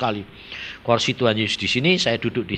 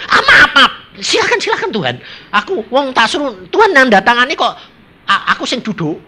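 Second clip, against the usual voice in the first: sheepish apology; 9 semitones higher, 6 dB louder than usual. Retold or imitated. Caught sitting on Lord's chair.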